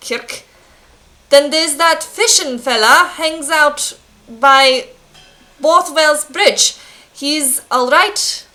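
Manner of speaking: put-on drawn-out, muddled Scottish-German accent; clumsy Scottish blacksmith turning German; Scottish slipping into German. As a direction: attempt Scots but drift toward German. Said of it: "switching to German as I speak".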